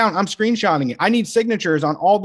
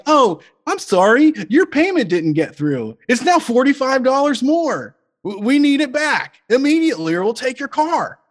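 mock car lender; 7 semitones higher than usual. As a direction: play a fake-sweet lender threatening repossession. Car lender voiced calling about payment.

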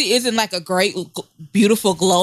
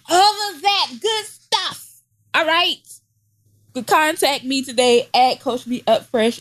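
ad read. Pretend. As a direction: bubbly fake promo pitch. Mock ad read for coaching.

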